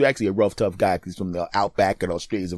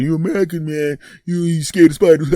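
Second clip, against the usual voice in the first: higher-pitched mock Australian voice, teasing; mock Australian taunt; 6 semitones higher, 3 dB louder than usual. Australian friends mocking the host in a raised, teasing Australian voice. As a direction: put on an Aussie accent and rib the scared American. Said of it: "trying to make me feel like a punk".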